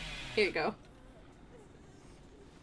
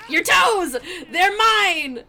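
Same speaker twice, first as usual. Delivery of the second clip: playful threat; 6 semitones higher, 5 dB louder, much slower than usual. Real, not acted.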